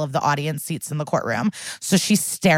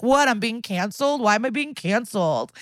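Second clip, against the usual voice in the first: mock whiny white guy; 5 semitones higher than usual. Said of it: "Classic white guy".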